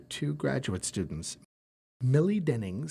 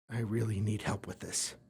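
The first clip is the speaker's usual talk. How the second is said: softer whispered plea; 5 semitones lower, 8 dB quieter than usual. Acted. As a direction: whisper it, almost ashamed. Desperate professor admits need.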